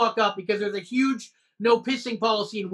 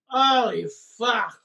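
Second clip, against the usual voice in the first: put-on slow drunken slur after a sigh; drawn-out boozy impression; hammered driver; much slower than usual. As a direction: do a drunk driver's dazed reaction. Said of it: "my impression of the guy driving".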